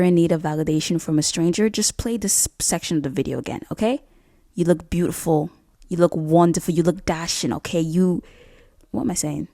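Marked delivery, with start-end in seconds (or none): 4.5-5.5 lightly put-on British accent. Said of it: "suddenly got a British accent". 5.9-8.2 lightly put-on British accent. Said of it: "suddenly got a British accent".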